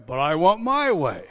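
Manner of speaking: mock the whine of a spoiled spouse; hammed-up whiny demand; whiny selfish spouse. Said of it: "In a marriage".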